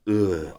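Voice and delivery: short mock "ugh" from the stands; brief imitated groan; imitated crowd groan. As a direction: grunt like one half of a crowd. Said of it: "one going".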